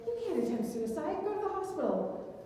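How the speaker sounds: high, brushing-off voice of the hotline worker; mock dismissive hotline worker. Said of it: "They said".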